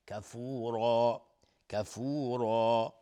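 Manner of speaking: slow کفورا with long "oo" and full "raa"; heavy ra. Shown as a demonstration. Teacher showing the ra rule, slow heavy ra. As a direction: recite کفورا drawn out, the ر thick. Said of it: "را هم حکمش استعلاء".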